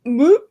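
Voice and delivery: sudden high, loud "boop"; mimed retch noise. Retold or imitated. Woman mimics gagging at the coffee, comic noise. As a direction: pop out a quick comic gag sound. Imitates nearly throwing up.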